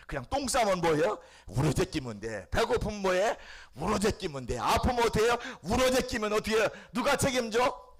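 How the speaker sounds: high, loud call-and-answer preaching; fervent preaching. Acted. Preacher rousing the congregation, loud and high. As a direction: drive the crowd with rising questions. Preacher acts out baby crying.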